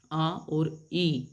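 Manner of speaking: आ और ई slowly drawn apart; vowel sounds shown. Shown as a demonstration. Teacher splitting the I sound into two vowels. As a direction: say आ और ई as two separate slow vowels. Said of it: "All these words gives a sound of I".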